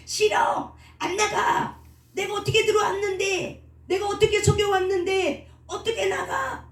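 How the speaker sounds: very high, wailing refusal; spirit thrashing in protest. Retold or imitated. Preacher imitating a spirit fighting exorcism, high frantic protest. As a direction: act out a spirit desperately refusing to go. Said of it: "이렇게 막 이제 바람을 치는 거죠".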